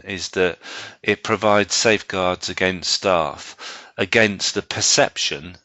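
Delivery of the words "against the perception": "perception" given clear emphasis; stress on perception. Real, not acted. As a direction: lean on the word "perception" to single it out. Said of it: "I emphasise the word perception".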